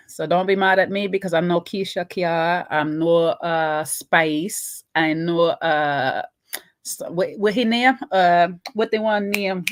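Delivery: lightly put-on Jamaican patois; mock Jamaican accent. Trying to recall the boy's name in an imitation Jamaican accent. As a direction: keep a rough Jamaican accent while groping for a name. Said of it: "me no have to do the accent properly".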